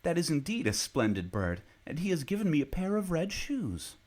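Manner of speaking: light-hearted little Marlene; happy girl. A narrator's reading. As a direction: bubble over with relief. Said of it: "she said".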